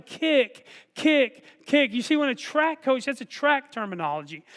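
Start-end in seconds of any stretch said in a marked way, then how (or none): 0.0-1.9 a lighter repeat of the kick chant; yelling kick. Retold or imitated. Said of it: "you're yelling".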